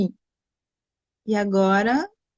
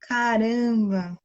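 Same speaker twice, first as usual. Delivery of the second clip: long drawn-out exasperated exclamation; 3 semitones higher, much slower than usual. Real, not acted. Host whose live guest keeps dropping, exasperated. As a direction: stretch it out in real dismay.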